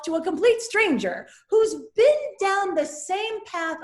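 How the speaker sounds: voice breaking. Real, not acted. Voice breaks recounting judgment.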